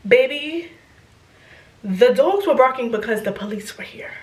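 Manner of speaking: hushed dramatic whisper; breathy storyteller's secret. Real, not acted. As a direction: lean in and whisper the twist. Dramatic reveal to the audience.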